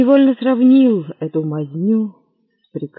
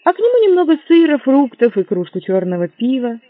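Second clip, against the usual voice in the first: rushed order; 7 semitones higher, 5 dB louder than usual. Acted. Hurried ordering, high and fast.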